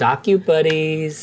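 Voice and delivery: delighted, happy tone. Voicing a character who shows off her new bag: delighted. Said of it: "with delight".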